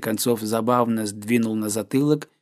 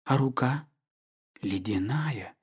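softer, fading into a whisper; a hushed confession; 7 dB quieter than usual. A narrator's reading. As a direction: breathe it close to his ear. Lover's intimate confession.

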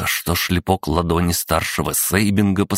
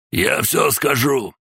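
high, drawn-out cry of surrender; desperate cry; 9 semitones higher, slower than usual. A narrator's reading. Tortured man gives in to his torturer, crying out high. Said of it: "крикнул Эйнар".

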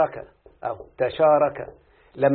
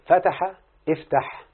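slow demo; much slower than usual. Shown as a demonstration. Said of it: "شوف لما أقول".

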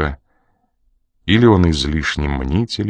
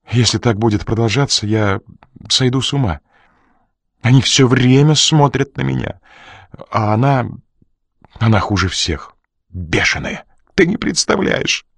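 fearful question; 3 semitones higher than usual. Acted. Crew asking Coridon if he is doomed, scared. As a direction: ask it like a scared man.

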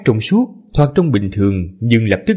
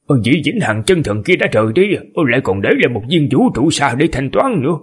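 male voice; 3 semitones higher than usual. Acted. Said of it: "Lát đổi thành giọng nam".

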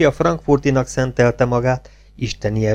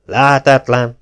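angry snort; 3 semitones higher, 7 dB louder, slower than usual. A narrator's reading. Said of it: "újtatott dühösen Otto".

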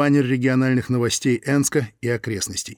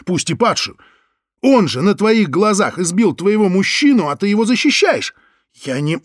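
high furious shouting; furious yelling; 8 semitones higher, 5 dB louder than usual. Acted. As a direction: scream it in outrage. Лёня yells at Соня.

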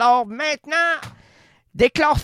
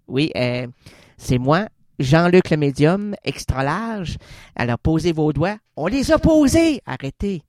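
seance medium. Acted. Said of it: "c'est le médium qui rentre en transe".

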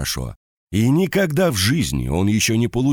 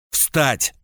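roaring; 7 semitones higher than usual. A narrator's reading. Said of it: "взревел Штернберг".

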